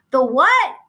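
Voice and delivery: a shriek over the road noise. Acted. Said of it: "she shrieked".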